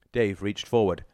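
ordinary delivery, nothing marked

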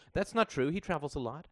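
a touch of a defensive mother. A narrator's reading. Mother and child exchange.

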